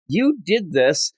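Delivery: half-hearted imitation of an angry yell; mock angry yell. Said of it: "he's yelling at Superman".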